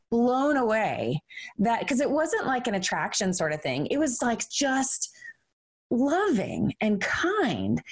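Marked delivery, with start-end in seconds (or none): 4.5-7.8 slow, tearful near-whisper; choked up. Real, not acted. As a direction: let the words catch as emotion rises. Moved while describing kindness.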